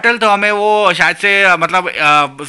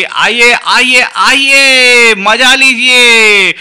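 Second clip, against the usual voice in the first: drawn-out welcoming call, louder; 5 semitones higher, 4 dB louder, much slower than usual. Acted. Shopkeeper calls shoppers in, slow and loud. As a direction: beckon customers in, stretching each word.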